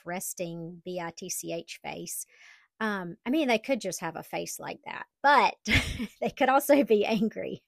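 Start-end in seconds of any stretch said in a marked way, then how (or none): 0.0-2.3 whispered. Real, not acted. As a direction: whisper the rude word, unvoiced. Whispers the rude word.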